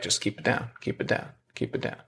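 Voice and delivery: urgent hushed whisper, almost no voice; breathy whisper pressing anger down. Retold or imitated. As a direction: shush yourself under your breath. Inner voice telling him to suppress.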